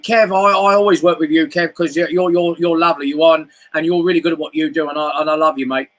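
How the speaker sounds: impression of Bob. Kev's guest gushing at Kev, lightly imitated. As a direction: lightly put on his gushing matey voice. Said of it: "that's a good impression".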